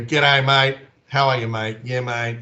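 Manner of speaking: demonstrating laid-back Aussie mateyness; casual Aussie. Shown as a demonstration. Australian showing Americans how mates greet each other, casual. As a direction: toss it out like an easy Aussie greeting. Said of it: "It's really laid back. It's really casual".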